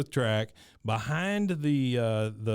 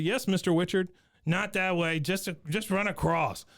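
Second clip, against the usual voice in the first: hillbilly voice; 6 semitones higher than usual. Retold or imitated. Wichert voiced.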